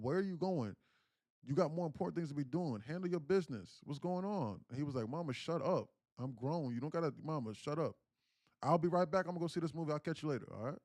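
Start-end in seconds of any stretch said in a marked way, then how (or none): 0.0-4.6 high-pitched nagging mother; imitated scolding mother. Mother challenging son on his way out, imitated scolding. 5.1-10.8 higher-pitched exasperated comeback; retold exasperation. Son leaving mid-argument with his mother, retold exasperation.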